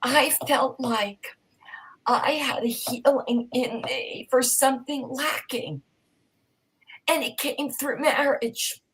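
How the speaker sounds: high, slow, breaking voice close to crying; emotional, near tears. Real, not acted. Guest moved by her marriage, voice breaking with tears. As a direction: let the tears come through the words. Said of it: "I'm getting so emotional".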